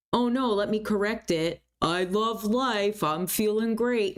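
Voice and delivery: mock-bright fake positive statement; fake cheerful. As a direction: overdo the forced happiness. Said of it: "you don't need to lie and be ridiculous".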